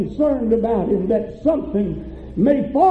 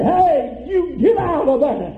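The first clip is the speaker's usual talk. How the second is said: higher-pitched mock holler; retold holler; 4 semitones higher than usual. Preacher retelling a man hollering at whoever took his car, mock holler. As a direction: imitate calling out at someone. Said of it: "began to holler at 'em and say".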